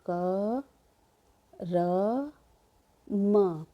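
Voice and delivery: क, र, म as three separate drawn-out sounds; letter by letter. Shown as a demonstration. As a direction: hold each of क, र, म, with a clear pause between. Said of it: "कर्म में क्या है". (क, र, म अलग-अलग, खींचकर)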